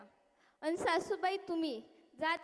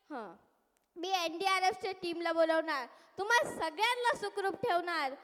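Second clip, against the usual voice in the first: politician's speech. Acted. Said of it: "साहेब आले".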